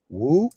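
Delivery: rising "whoo" hoot; imitated distant whoop. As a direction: imitate a far-away whoop, rising at the end. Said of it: "you just heard this faint".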